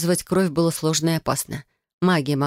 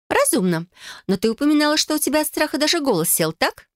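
put-on bright, higher girlish cousin voice, eager; Felicia's voice; 11 semitones higher than usual. Cousin proposing a blood oath to Adel, eager and higher. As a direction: play the scheming cousin, higher.

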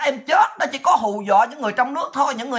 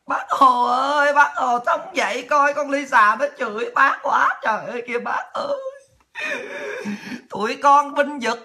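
mock lament; 3 semitones higher than usual. Mock wailing to Uncle Ho.

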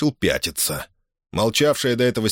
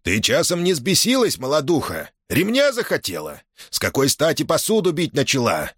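scolding; 6 semitones higher than usual. Acted. Merchant scolds Дашутка.

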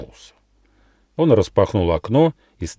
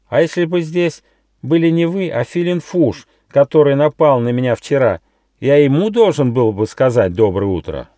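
much higher squeaky mouse voice, drowsy; sleepy little mouse; 6 semitones higher, 5 dB louder than usual. Acted. Mouse Gosha waking up asks the gnome, high mouse voice. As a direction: peek out with one eye and ask sleepily.

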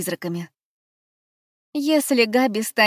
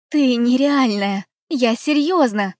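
louder, eager, slow insisting; enthusiastic; 4 semitones higher, 5 dB louder than usual. Acted. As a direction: convince her with excitement. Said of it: "убеждала я Габи".

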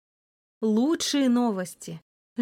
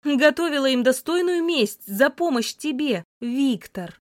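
loud reply; 4 semitones higher than usual. Acted. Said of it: "громко ответила я".

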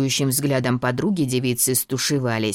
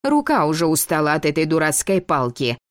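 капризно; 3 semitones higher than usual. Acted. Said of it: "капризно протянула она".

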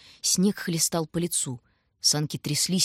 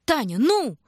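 higher, louder, hurrying her; impatient shout; 7 semitones higher, 5 dB louder, slower than usual. A narrator's reading. Shurka hurrying his sister up the drift, impatient shout. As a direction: snap her out of it.

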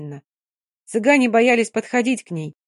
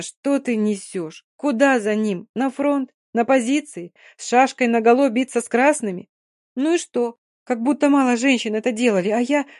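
firm scolding friend, rising louder; 4 semitones higher, 3 dB louder than usual. Acted. Mary and Dina argue.

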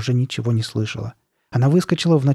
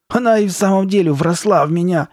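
higher, alarmed outburst; alarmed exclamation; 7 semitones higher, 4 dB louder than usual. A narrator's reading. Carly Beth realising the mask is stuck, alarmed.

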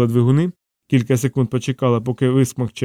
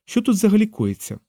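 high, exasperated question; worked-up and baffled; agitated; 9 semitones higher than usual. A narrator's reading. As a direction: refuse to calm down, pitch jumping up. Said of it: "не вгамовувалась Фіона".

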